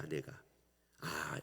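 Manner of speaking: ordinary talk, nothing marked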